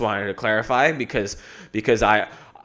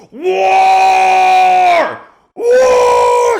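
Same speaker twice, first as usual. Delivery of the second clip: very high, drawn-out battle scream; imitated war scream; 12 dB louder than usual. Vlogger imitating a fighter running on the beach, screaming. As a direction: scream it full out, stretching the word. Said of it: "he would just scream".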